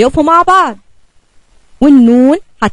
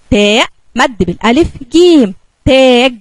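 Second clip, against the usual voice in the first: slow modelled reading. Shown as a demonstration. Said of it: "اقرأ معايا كده".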